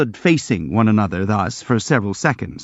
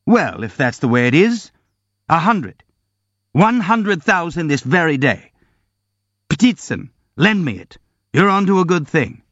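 raised and eager bidding; excited; 6 semitones higher than usual. Acted. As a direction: bid it up with reckless glee. Rogojin bids wildly, drunk.

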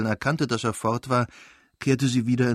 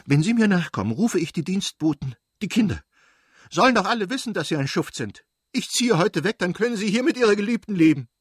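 high, loud, racing fury; wife driving her husband off in rage; furious threat; 10 semitones higher, 5 dB louder than usual. Acted. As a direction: threaten him, louder and faster toward the end.

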